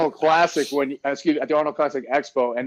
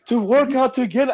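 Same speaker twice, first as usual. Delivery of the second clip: mild mock rant; 6 semitones higher than usual. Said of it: "He was just going off on her".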